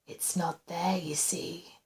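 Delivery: soft, hushed and unhurried; calm. A narrator's reading. Intruder explaining the missing call button, calm. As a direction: explain it calmly, almost whispering. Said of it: "the voice went on calmly".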